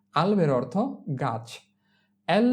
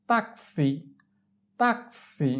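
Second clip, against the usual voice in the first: slow, separated "tak-si" in "taxi"; drawn-out model; much slower than usual. Shown as a demonstration. Teacher models taxi for learners, drawn out. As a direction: split "taxi" into two long syllables.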